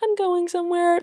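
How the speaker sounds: high, eager repeat; excited traveller. Pretend. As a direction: sound thrilled to be on a trip.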